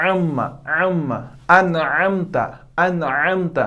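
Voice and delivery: अनअमता with a throaty ain; तजवीद वाली अदायगी; Quran recitation demo. Shown as a demonstration. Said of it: "लेकिन वहाँ पे क्या है".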